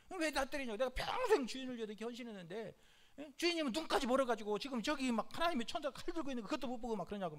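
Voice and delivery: mildly acted indignant complaint, quickening; a touch of hurt protest; aggrieved donkey. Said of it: "얼마나 억울한지".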